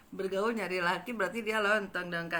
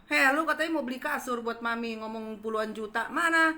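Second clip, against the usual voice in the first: retold scolding; 4 semitones higher than usual. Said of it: "ku marahi kan?".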